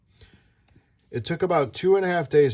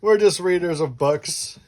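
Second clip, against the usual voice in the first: slow, laughing, louder line; 4 semitones higher, 4 dB louder than usual. Real, not acted. Parent laughing as they joke with the child.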